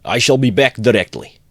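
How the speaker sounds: high, loud hurried call; shouted. A narrator's reading. Friend running out calls to the horror-stricken mother, shouting. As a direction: shout it back to them. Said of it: "he shouted to the".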